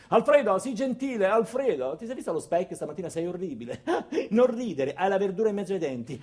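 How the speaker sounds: hammed-up condescending boss teasing an employee; a hint of a spoiled boss poking fun, laughing; mocking bossy boss. Sofia mocking Alfredo's looks.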